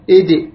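ايدي as "id" with a bounced d; qalqala on dal. Shown as a demonstration. Teacher moves on to dal, qalqala bounce. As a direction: release the d of ايدي in a short echo. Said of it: "زين، كذلك".

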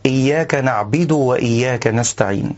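"نعبد" as na'bid with an i on the ba; the rare "نعبد" said with a kasra; wrong na'bid in "نعبد". Shown as a demonstration. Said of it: "والصواب ضم الباء لا كسرها".

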